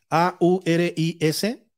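letras lentas y separadas; deletreando. Shown as a demonstration. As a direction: repasar letra por letra, despacio. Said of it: "A ver, deletréalo". (deletreando el nombre)

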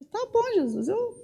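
soft, high, fading yielding words; tearful surrender. Retold or imitated. Woman gives in to Jesus, soft and tearful. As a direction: give in to Jesus, almost breaking.

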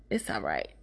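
unvoiced whispered repeat; soft secret whisper to a friend. Real, not acted. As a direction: hush it like a private reassurance. Reassuring the older woman.

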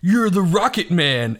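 slow, hammed-up movie star delivery; a light imitation of Nick Cage's line; Nick Cage impression. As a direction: drag out the punchline like Cage. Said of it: "That's my Nick Cage impression".

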